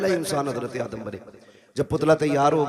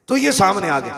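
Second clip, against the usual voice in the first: rising exclamation; 6 semitones higher, 7 dB louder than usual. Acted. Climax of the angels story.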